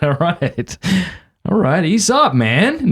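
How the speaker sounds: high-pitched defensive retort; mock protest. Husband replying to a friend's nice slap, mock protest. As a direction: back off in a high, put-upon voice. Acts out own protest at talking-to.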